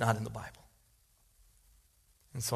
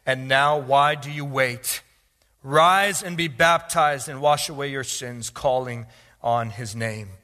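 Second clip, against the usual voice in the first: Scripture proclamation; 7 dB louder, slower than usual. Real, not acted. Reads Scripture to congregation.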